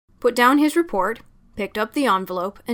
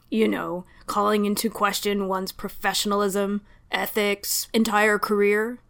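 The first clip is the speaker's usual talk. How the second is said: flat. Acted. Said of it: "he finished flatly".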